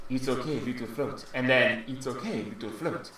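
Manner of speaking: soft, distant mimicked echo; barely heard through the door, fading; faint repeated voice. Creature echoing the player's words from the hallway, faint and soft. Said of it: "you hear an, a, a faint".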